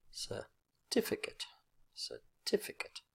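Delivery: certificate with TIF as the strong syllable; second-syllable stress. Shown as a demonstration. Teacher showing the strong syllable, certificate stressed on TIF. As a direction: set off a short cer, then stress TIF in certificate. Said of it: "second syllable is the strong syllable".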